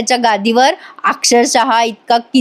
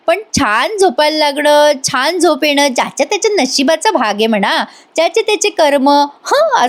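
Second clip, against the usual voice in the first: smug gloating; 4 semitones higher than usual. Retold or imitated. Adwait gloating.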